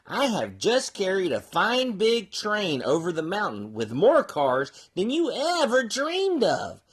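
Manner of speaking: lightly voiced snobbish engine; snooty engine. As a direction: look down on the little train. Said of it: "the shiny new engine snorted".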